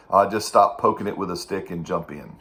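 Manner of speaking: put-on thick Persian accent; lightly imitated Persian accent; Mohammed's Persian accent. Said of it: "used to say in a very thick Persian accent".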